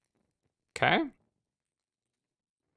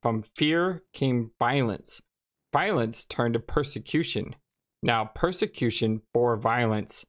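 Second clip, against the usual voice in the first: story narration. A narrator's reading. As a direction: read it like an epic prologue. Reads game intro narration.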